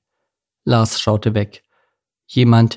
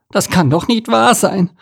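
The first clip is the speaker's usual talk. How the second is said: horrified murmur; 10 semitones higher, 4 dB louder than usual. Acted. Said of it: "murmelte er entsetzt".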